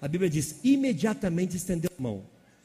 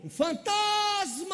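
high, slow scream of fright; terrified shout; much slower than usual. Retold or imitated. Peter's crew screaming at a ghost, high frightened shout. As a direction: shriek it like you've seen a ghost. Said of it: "O que que ele gritou?".

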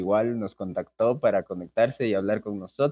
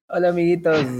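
bright host greeting; 6 semitones higher, 5 dB louder, faster than usual. Acted.

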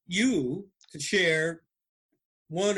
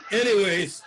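laughing; 5 semitones higher, 4 dB louder than usual. Real, not acted. Laughing after dirty joke.

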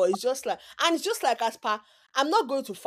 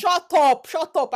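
playful shut up; 6 semitones higher, 7 dB louder, slower than usual. Real, not acted. Mock annoyance at friend.

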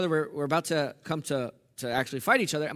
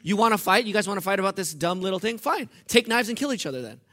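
sarcastic brother; 2 semitones higher than usual. Retold or imitated. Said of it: "it was sarcastic".

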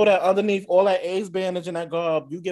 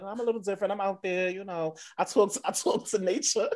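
quirky queen; 3 semitones higher, 3 dB quieter than usual. Acted. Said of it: "might be the quirky queen".

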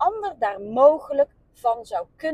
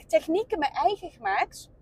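hiccups between the words; 2 semitones higher, 5 dB quieter than usual. Real, not acted. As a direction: push on through the hiccups. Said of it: "ik heb echt heel erg de hik". (met de hik)

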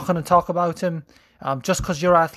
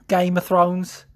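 attempted Scouse sliding into Cockney; put-on Cockney accent; Cockney slip; slower than usual. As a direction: say it with a Cockney twang. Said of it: "That was fucking cockney".

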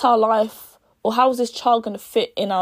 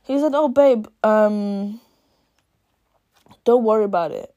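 husband voice; 3 dB louder than usual. Retold or imitated. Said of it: "the husband says".

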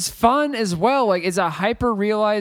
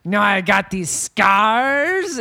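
Joker impression; slower than usual. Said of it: "doing the Willem Dafoe".

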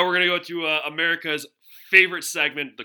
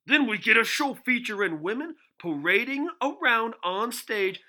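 loud, higher, slow sports-pundit rant; Stephen A Smith; 8 semitones higher, 11 dB louder, slower than usual. Retold or imitated. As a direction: build up like an outraged TV pundit on air. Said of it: "read it in a Stephen A Smith voice".

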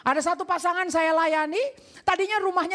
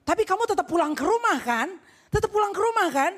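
mama memastikan; 4 semitones higher than usual. Acted. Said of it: "Maya bilang".

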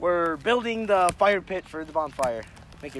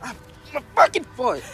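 pained yell; 7 semitones higher than usual. Real, not acted. Hurt foot on the fire pit.

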